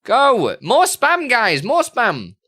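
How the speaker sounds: high, loud hype; urgent rallying call. Real, not acted. Streamer urging viewers to spam, loud rallying call. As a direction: call out to egg the crowd on.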